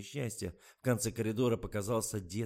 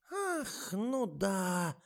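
высокий оживлённый возглас; вдруг вспоминает; оживление; 11 semitones higher, 3 dB louder, much slower than usual. A narrator's reading. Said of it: "оживилась Ада Марковна". (оживлённый старушечий возглас)

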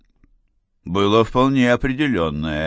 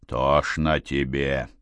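low, slow, softer growl; 7 semitones lower, 5 dB quieter, slower than usual. A narrator's reading. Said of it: "зарычал Толян". (низкий медленный рык)

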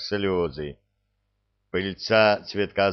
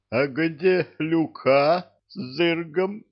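whimpering; 8 semitones higher, slower than usual. A narrator's reading. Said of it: "прохныкал Кевин".

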